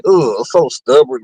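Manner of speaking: slow, low mock groan of reluctance; grudging groan. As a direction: imitate him sighing it out, dragging. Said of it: "He was like".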